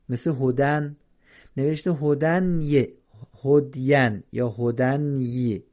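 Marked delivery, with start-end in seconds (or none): 3.4-5.6 slow هدین with the ی sounded; wrong reading. Shown as a demonstration. Teacher showing students what to avoid. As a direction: slowly say the mistaken هدین. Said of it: "این یه خوانده نمیشه".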